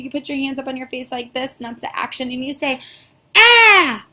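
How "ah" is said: loud high mock scared "Ah!"; scared cry. Shown as a demonstration. Teacher acting scared of monster for letter sound. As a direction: shriek like you've seen a monster. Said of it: "like you're scared of a monster".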